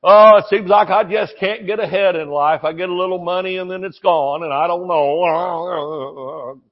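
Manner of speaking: moaning imitation of a grumbler; put-on woe-is-me lament; mock complaining. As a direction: whine on and trail into a groan. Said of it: "people talk like that".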